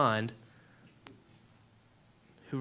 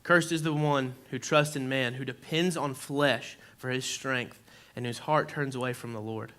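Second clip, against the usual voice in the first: scripture reading. Acted. Reads scripture slowly.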